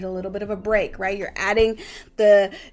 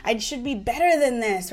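higher, exasperated scolding of oneself; mild mock self-reproach; self-blaming inner voice; 5 semitones higher than usual. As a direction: nag yourself over a mess. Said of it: "we start to blame or judge ourselves".

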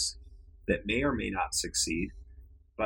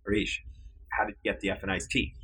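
pressing a little faster, half-joking irritation; mock exasperated demand. Boss pressing his intern about the iced tea, mock exasperation. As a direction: spell out the question like you're losing patience. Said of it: "Now I'm getting ready to put him in a chokehold".

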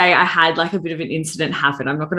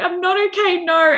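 retold breakdown; 13 semitones higher than usual. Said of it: "I just burst into tears".

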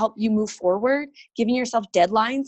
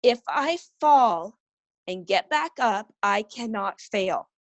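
slow, deliberate motherly prompt; measured retold pep talk; firm model phrase; slower than usual. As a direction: say it slowly for a child to repeat. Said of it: "you repeat after me".

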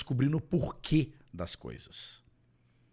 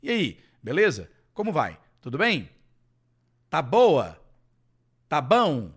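casual greetings; 5 dB louder than usual. Shown as a demonstration. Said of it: "em português também tem várias formas".

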